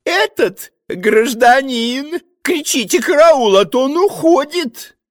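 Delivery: высокий дребезжащий голос регента; угодливо и суетливо, повыше; shifty choirmaster voice. Acted. (регент притворно оживляется)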